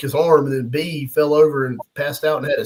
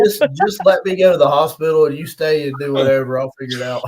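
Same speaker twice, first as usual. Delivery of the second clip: mock pitiful husband; 4 dB louder than usual. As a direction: play the hurt husband begging to be excused. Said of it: "I was like".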